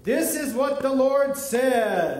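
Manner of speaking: slow, loud prophet reading; dramatic proclamation. Shown as a demonstration. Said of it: "You're actually gonna read this time".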